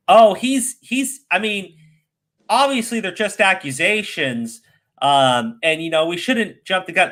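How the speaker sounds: mocking commentator. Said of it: "Doing this bullshit of".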